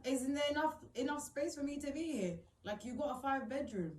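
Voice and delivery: retold heated protest; indignant protest. Retold row with mother over space.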